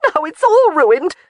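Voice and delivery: high, loud, slow despair; tearful lament. Acted. Jamie lamenting to everyone that all is ruined, high and slow. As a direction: drag it out, near tears.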